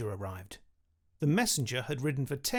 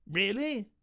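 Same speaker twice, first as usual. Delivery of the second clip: exclaimed; 6 semitones higher than usual. A narrator's reading. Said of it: "exclaimed the king".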